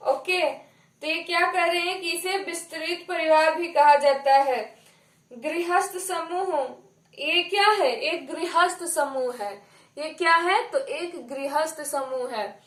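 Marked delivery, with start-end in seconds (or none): 5.3-6.7 slow, measured dictation pace. Real, not acted. Teacher dictating so students can write it down, slowly. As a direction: dictate slowly for note-taking. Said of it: "मैं धीरे धीरे बोलूंगी".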